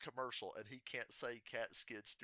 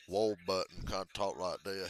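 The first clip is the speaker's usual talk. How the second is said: Ward Burton; 4 semitones lower, 4 dB louder than usual. Retold or imitated. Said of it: "his voice is like that".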